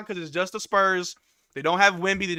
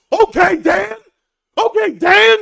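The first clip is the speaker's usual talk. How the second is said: loud, high and hyped; fired-up fan hype; 12 semitones higher, 12 dB louder, slower than usual. Real, not acted. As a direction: shout it like you can't believe it. Hyped after dunk.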